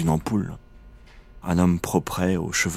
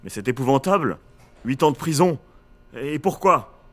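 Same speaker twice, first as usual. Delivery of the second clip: falsely tragic, high-pitched exclamation; ton tragique; 8 semitones higher than usual. Retold or imitated. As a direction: overplay the despair, hollow and theatrical. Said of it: "je profère d'un ton tragique". (tragédie surjouée, voix haute et fausse)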